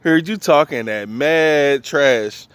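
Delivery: principal on the intercom. Retold or imitated. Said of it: "Called him over the intercom".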